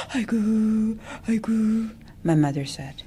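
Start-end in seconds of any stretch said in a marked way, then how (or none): 0.1-1.9 high keening aigu, aigu; wailing. Acted. Family wails again for the absent son, high keening. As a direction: wail it out in ritual grief. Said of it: "We wailed".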